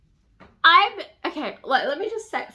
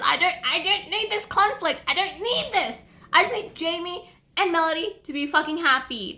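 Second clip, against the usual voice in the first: frustrated rant; 6 semitones higher than usual. Real, not acted. Upset about the conflict.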